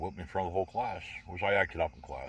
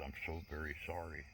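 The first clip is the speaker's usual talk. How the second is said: soft sympathetic apology; 9 dB quieter than usual. Retold or imitated. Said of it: "with empathy in her face".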